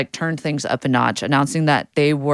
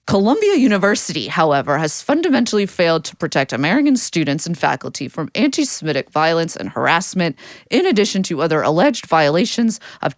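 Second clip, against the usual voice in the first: nerd voice. Acted. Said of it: "I'm fucking Boss Baby".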